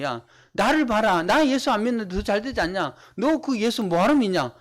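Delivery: lightly acted taunt of a successful unbeliever; mock boasting scoffer. Prosperous unbeliever needling a believer, mock boastful taunt. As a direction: act out a touch of smug scorn. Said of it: "이렇게 하는 거예요".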